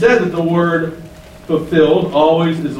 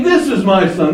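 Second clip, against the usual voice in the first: This pitched up, then falling; stress on This; 3 semitones higher than usual. Shown as a demonstration. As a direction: lean on the word This. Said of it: "He's saying".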